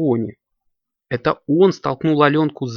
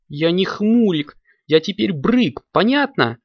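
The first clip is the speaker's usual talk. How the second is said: brave defiance; 8 semitones higher, 3 dB louder than usual. A narrator's reading. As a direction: stand up to her, squeaky and brave. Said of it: "Брык храбро выступил вперёд".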